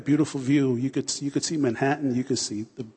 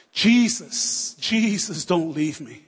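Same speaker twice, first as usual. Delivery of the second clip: desperate cry; 3 semitones higher, slower than usual. Retold or imitated. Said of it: "she's crying and she's screaming".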